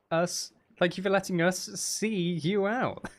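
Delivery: drawn-out words tipping into laughter; holding back laughter. Real, not acted. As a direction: struggle through it before the giggles break. Breaks into laughter while thanking.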